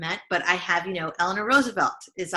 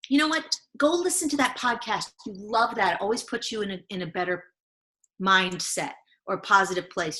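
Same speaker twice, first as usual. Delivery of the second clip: encouraging inner voice. Retold or imitated. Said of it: "that inner badass voice".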